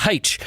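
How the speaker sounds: "H" said as HAITCH; letter "H" beginning like "hay". Retold or imitated. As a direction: put an h sound on the front of "H". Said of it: "if you go".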